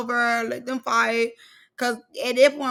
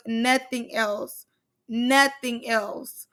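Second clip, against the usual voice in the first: slow emphatic repeat; much slower than usual. Real, not acted. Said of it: "slow repetition".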